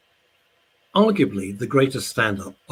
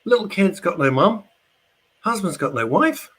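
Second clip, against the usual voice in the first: indignant rant; 10 semitones higher, 4 dB louder than usual. Real, not acted. Angry rant about unpunished death.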